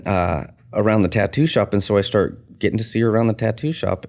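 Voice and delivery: ordinary talk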